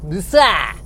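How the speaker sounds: badly faked French accent; silly fake French. Comic failing at school French, silly fake French accent. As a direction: toss out a silly French word. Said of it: "That's me being silly".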